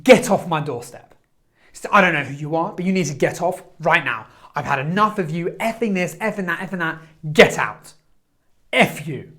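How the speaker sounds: angry man at the door shouting at a charity seller; retold angry yell. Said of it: "suddenly he just cuts me off".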